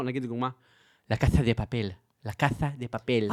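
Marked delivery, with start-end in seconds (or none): 1.1-3.3 lisped Castilian Spanish, the s as th, drawn out on repeat; childlike lisping Spain Spanish, low-pitched; Castilian Spanish accent. Shown as a demonstration. Showing the host how Spaniards talk, Castilian lisping accent. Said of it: "הם מדברים כמו ילדים".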